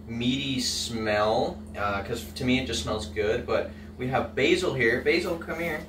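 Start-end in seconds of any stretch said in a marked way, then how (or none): 5.0-5.8 raised, sing-song call to a pet; calling the dog. Real, not acted. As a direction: coax the dog over in a lifted voice. Calling his dog over.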